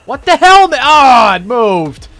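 high, loud startled outburst; jolted into a high shout; startled yell. Real, not acted. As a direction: yell out in alarm as it moves. Startled by something moving.

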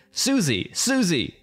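high-pitched acted calling out; mock scream. Runner calling for lost Susie, mock scream. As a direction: holler the name, voice jumping up. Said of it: "while screaming loudly".

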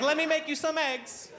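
put-on high, slow sweet old lady voice; calm grandma. Grandma offers eggs to the panicked kid, high and slow. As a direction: soothe with breakfast.

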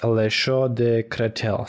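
"Les Chaux de Créteil" said slowly in a clumsy English-tinged French; careful, halting French "Les Chaux de Créteil"; broken french. Real, not acted. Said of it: "I apologize for my bad French".

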